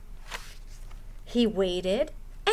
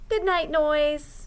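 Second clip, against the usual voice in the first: smiling; 4 semitones higher, slower than usual. Acted. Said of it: "Owl smiled".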